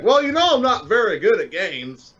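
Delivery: high, put-on helpless protest; feigned innocence. Feigns incompetence to dodge work.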